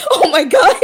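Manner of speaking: loud, high exclamation through laughter; laughing. Real, not acted. Player reacts to the coming race, real loud laughing exclamation. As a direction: cry out while cracking up.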